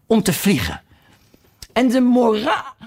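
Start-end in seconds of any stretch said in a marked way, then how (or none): 1.7-2.7 duchess cut off. A narrator's reading. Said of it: "stierf de stem van de hertogin".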